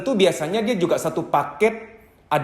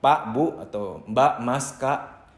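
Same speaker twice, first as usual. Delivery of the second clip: calm soothing; 4 semitones lower than usual. Shown as a demonstration. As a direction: settle them gently, like a witness to their relief. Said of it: "Anda ngomong begini".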